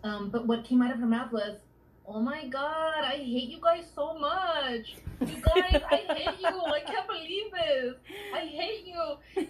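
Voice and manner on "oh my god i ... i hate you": high, far put-on teen girl, slow and whiny; mock a gushing teen pretending to hate her family; teenager voice. Teen girl at her birthday cake, mock-whiny high teen voice. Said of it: "I used to talk like that as a teenager".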